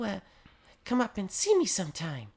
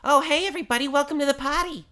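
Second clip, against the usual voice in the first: stilted script reading; 3 semitones higher, 8 dB louder, faster than usual. Acted. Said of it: "read this new script I wrote".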